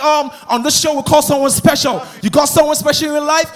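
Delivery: imitated American host accent; mock American show-host question; American interviewer. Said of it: "they was like".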